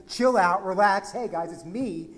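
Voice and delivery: casual. Shown as a demonstration. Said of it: "very casual way of saying".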